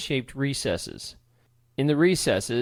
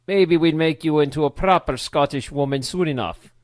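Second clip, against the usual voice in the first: Scottish brogue; 3 semitones higher, 4 dB louder than usual. Acted. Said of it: "the kilted man with the Scottish brogue".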